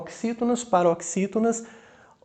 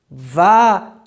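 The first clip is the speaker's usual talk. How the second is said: VAGABUNDO broken into four loud, separate beats; syllable by syllable; 7 dB louder than usual. Shown as a demonstration. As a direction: punch out each syllable of VAGABUNDO. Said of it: "pelos impulsos de voz".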